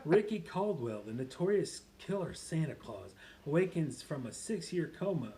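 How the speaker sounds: lightly put-on animated reader; dramatic blurb reading, dropping to an aside; Happy. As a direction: read it out in character with punched openings. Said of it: "just to get you back in character".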